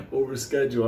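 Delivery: sarcastic echo of we'll reschedule; mocking echo. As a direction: throw his words back with scorn.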